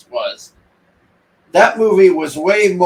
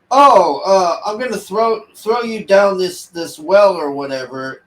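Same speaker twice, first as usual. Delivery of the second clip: higher, breezy mock-casual voice; mocking the wife; 4 semitones higher, 3 dB louder than usual. Reviewer imitating the wife throwing a man downstairs, breezy mock. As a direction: toss the line off like it's nothing.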